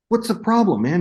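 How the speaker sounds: high-pitched, mock-exasperated question; imitated exasperated director. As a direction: play the director demanding an answer. Director confronts frozen actor, retold.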